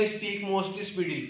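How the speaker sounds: each word drawn out slowly and softly; slow dictation. Shown as a demonstration. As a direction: read the written line slowly like dictating. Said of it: "मैंने लिखा हुआ था".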